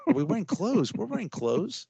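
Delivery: high, disbelieving repeat; incredulous. Real, not acted. Repeating an absurd question incredulously.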